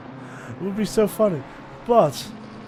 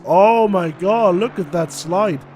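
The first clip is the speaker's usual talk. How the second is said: excited; 6 dB louder, slower than usual. Real, not acted. Commentator reacting to a slide.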